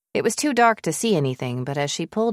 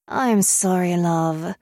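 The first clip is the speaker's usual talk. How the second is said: put-on British accent; slower than usual. A narrator's reading. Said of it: "came her friend's British accent".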